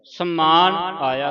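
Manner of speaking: slow ਸਮਾਨ with a held m, sammaan; nasal doubling. Shown as a demonstration. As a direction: press the m of ਸਮਾਨ before the long aa. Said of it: "ਸਮਾਨ ਸੱਸੇ ਟਿੱਪੀ ਲੱਗੀ".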